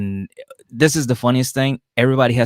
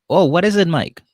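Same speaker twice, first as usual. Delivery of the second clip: high, a touch louder mock curiosity; feigned innocence; 8 semitones higher, 4 dB louder than usual. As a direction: act clueless, pitch up. Family feigning ignorance.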